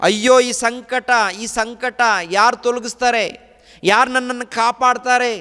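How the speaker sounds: high, loud anguished wail of a tormented soul; anguished rich man. Acted. The rich man in hell crying out, anguished and loud. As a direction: beg for rescue from the torment.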